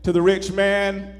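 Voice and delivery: measured, lifted Bible reading voice; solemn sermon scripture reading. Acted. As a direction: read the passage with weight and reverence.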